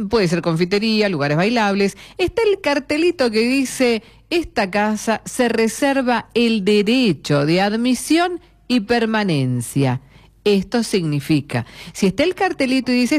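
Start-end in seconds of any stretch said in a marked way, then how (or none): 4.3-10.0 slow, measured recital of a notice; deliberate, drawn-out official wording; reading a sign aloud. Acted. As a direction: spell out the house rules slowly. Reads out the house-rules sign.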